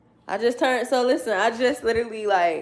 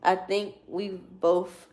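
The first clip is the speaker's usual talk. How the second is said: reading aloud. Real, not acted. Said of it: "Let me read it to you".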